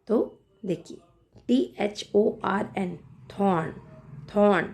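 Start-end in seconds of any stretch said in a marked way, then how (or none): 3.4-4.7 थॉर्न starting with an aspirated थ. Shown as a demonstration. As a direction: say थॉर्न with a breath of air on the थ. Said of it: "थ का sound आ रहा है".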